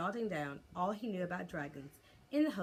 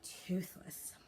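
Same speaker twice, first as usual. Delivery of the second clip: reasonable; 4 dB quieter than usual. Acted. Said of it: "said Hiccup as reasonably as he could".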